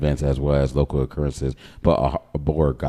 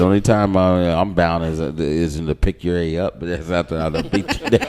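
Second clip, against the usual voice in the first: grandmother; 2 semitones higher, 6 dB louder than usual. Retold or imitated. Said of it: "as my grandmother said".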